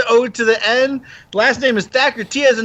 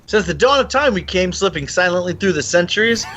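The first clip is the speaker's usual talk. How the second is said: Highlander intro. Acted. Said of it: "that's from Highlander".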